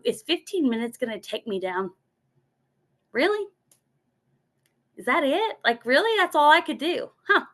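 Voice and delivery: high, mocking disbelief at her own excuse; incredulous self-challenge. To herself, mocking her own whining over fifteen minutes, incredulous and high. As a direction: scoff at yourself, pitch way up on "Really?". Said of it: "I go".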